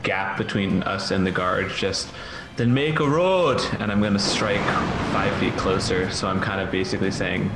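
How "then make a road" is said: raised, drawn-out yell across the gap. Acted. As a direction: call it loud across the gap. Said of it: "I'll yell out across the".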